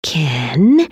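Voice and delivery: hushed, calming appeal; gently placating wife; soothing. A narrator's reading. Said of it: "Alex's mom said soothingly".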